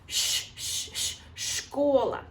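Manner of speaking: sh, sh, sh hissed before школа; sound demo. Shown as a demonstration. Teacher isolates the sh sound of школа. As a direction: drag out the sh, then say школа. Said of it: "the sound is very similar".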